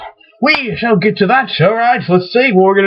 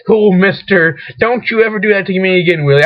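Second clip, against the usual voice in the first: mock parental telling-off; lecturing. Scolding the stuffed whale just found, mock lecturing. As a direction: scold with a touch of sternness. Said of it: "I was, like, lecturing him".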